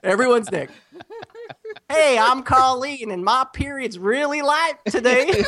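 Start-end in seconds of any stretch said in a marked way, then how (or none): 1.9-5.4 lightly voiced woman, a little higher; a hint of a chatty woman, laughing; man doing a woman's voice. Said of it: "the girl show's impression".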